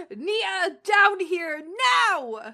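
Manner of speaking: hammed-up mom scream. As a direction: holler it like an angry mom. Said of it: "Mom screams".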